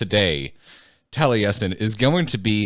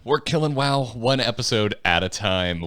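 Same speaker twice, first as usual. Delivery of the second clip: podcast host intro voice; 3 semitones higher than usual. Acted. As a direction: welcome the listeners like a radio host. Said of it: "the difference in the host's voice".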